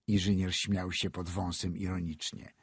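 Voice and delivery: ordinary delivery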